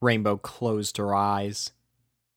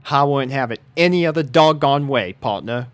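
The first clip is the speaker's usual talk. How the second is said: louder, higher folksy farm voice; smiling Applejack; 4 semitones higher, 5 dB louder than usual. A narrator's reading. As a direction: grin through it, easy and folksy. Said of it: "smiled Applejack".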